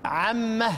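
عمه ending in a breathy h; عمه with ha after the mim; stopping with ha. Shown as a demonstration. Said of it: "إذا وقف البزي هناك". (الوقف على عمه بهاء السكت)

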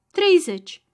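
high, loud shouted bid. A narrator's reading. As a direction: fling the number out to win the auction. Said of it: "strigă".

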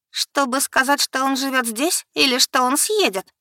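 high, pressing demand; требовательно; demanding question. Acted. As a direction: insist on a straight answer. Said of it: "требовательно подняла бровь".

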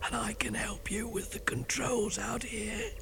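hoarse whisper, voice nearly gone; lost voice whisper. Acted. DJ who lost his voice, whispering. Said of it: "sounding like this".

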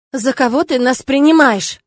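loud, slow, flaring indignation; loud offended retort; outburst. A narrator's reading. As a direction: blow up at them. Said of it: "вспылил Алекс".

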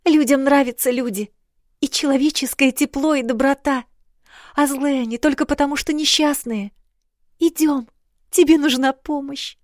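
a princess insisting on kindness; earnest young girl. A narrator's reading. Princess comforting sister.

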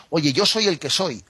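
a touch of swagger, tossed off proudly; mock arrogant. Shown as a demonstration. Teacher shows how God's answer might sound arrogant, mock proud. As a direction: say it like a cocky brush-off, lightly. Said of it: "podía sonar un poco a una arrogancia".

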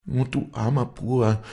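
high, wailing lament; keen over him; grieving lament over the wounded man; loud lament. A narrator's reading. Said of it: "So klagte sie laut".

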